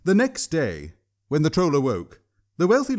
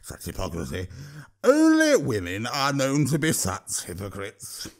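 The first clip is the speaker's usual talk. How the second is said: troll voice =36. A narrator's reading. Troll voice continues.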